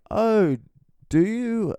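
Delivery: put-on very high interested old lady; high prim old lady; polite old lady. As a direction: coo it politely. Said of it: "And she's like".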